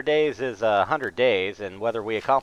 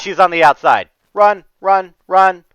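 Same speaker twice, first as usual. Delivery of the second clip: being chased; 6 semitones higher, 9 dB louder than usual. Real, not acted. Fleeing the boss, yelling run.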